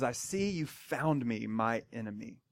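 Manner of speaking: quietly menacing king facing his foe; cold greeting. Retold or imitated. Ahab greets the prophet as his enemy, low and cold.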